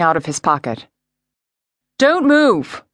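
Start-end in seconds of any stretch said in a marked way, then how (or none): 2.0-2.8 sharp, raised police command. A narrator's reading. Detective to armed suspect, firm command. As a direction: bark the order to freeze. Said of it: "Romero commanded".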